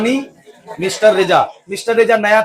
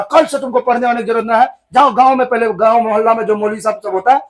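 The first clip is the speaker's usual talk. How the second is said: stern scolding; 2 semitones higher than usual. Acted. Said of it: "इतना डांट मारा".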